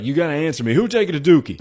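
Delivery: high-pitched, loud mock interrogation; imitated insistent shout. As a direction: demand an answer through the door. Man demanding answer through door.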